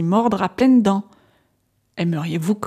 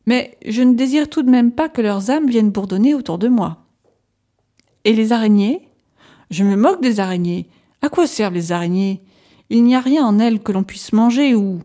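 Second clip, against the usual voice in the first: a hint of an agitated patient, a little raised; patient Renfield answering his doctor, lightly voiced and restless; lightly voiced madman Renfield; 3 semitones higher, 4 dB louder than usual.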